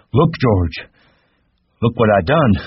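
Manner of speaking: high delighted call; Lenny calling George to see his splashes, thrilled; excited. A narrator's reading. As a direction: show off like a proud child.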